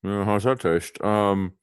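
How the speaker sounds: tiny puckered mouth; sucked in cheeks. Shown as a demonstration. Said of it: "talk like this with a very small mouth".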